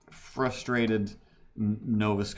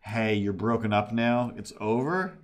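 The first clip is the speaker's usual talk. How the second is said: mock yell; 4 dB louder than usual.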